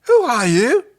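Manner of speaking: high, loud alien chorus; echoing alien voices. Acted. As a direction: ring out like many voices. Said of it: "The Zygal's voices echoed".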